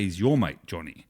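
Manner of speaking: disown him on "your", let "Johnny" fall away; dismissive "your mate". Shown as a demonstration. Australian talking about a disliked Johnny, dismissive. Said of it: "you say it differently".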